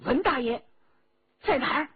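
又高又响地逼问; 短促有力地高声质问; 厉声喝问. A narrator's reading. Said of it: "喝问". (厉声逼问被抓的人)

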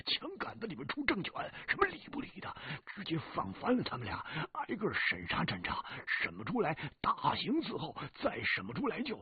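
brash, high, loud ranting; loud bluster. Acted. Fatty blustering to Hu about beating them, loud and high. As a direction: bellow it like a swaggering thug.

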